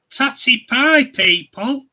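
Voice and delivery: hammed-up farewell call; loud catchphrase. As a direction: shout the goodbye to the viewers. Sign-off catchphrase.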